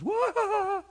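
high mocking whoop; mock heckler. A coworker's jeer that never came, mock whoop. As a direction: imitate a jeering coworker. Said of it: "not one person goes".

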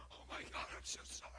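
soft unvoiced sorry; whispered apology. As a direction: whisper it, ashamed and near tears. Woman apologizing, crying.

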